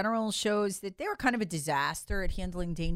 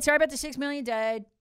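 mock yelling; 6 semitones higher than usual. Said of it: "screaming and yelling that".

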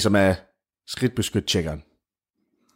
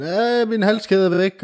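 calling out; 11 semitones higher, slower than usual. Acted. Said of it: "Råber til dem".

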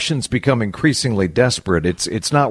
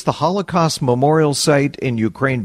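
ordinary delivery

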